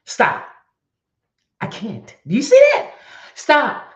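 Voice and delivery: breathless from squeezing hard; straining. Real, not acted. Straining during squeeze exercise.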